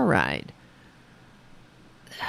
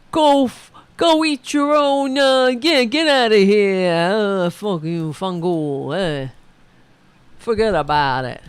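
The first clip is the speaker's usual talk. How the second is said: put-on Bensonhurst accent. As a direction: growl it out like the truck guy. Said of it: "He said".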